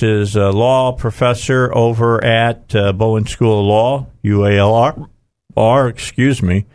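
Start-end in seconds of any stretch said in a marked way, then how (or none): 4.2-5.9 talking with the hiccups; words broken by hiccups. Real, not acted. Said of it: "got the hiccups today".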